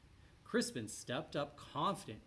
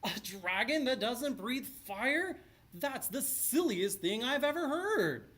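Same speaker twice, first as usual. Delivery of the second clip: laughing; 9 semitones higher, 5 dB louder than usual. A narrator's reading. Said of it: "the shiny man laughed".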